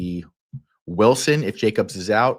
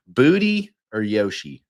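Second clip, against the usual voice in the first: tag playful relishing; 4 dB louder than usual. Shown as a demonstration. Repeating the fun phrase for effect.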